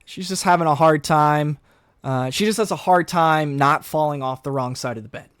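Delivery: put-on breezy teen covering for her; class clown voice. Bobby smooths things over.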